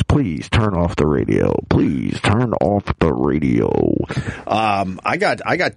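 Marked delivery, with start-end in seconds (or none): 0.0-1.5 pleading. Real, not acted. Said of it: "if my wife's listening with the kids". 1.7-3.7 slow, low, earnest plea; pleading. Real, not acted. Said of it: "if my wife's listening with the kids".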